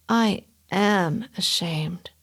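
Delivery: slow ashamed whisper. Acted. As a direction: breathe it out, full of shame. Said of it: "he said very quietly".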